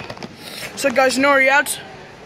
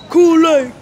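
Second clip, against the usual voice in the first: loud announce; 5 dB louder than usual. Real, not acted. Showing Kool-Aid to camera.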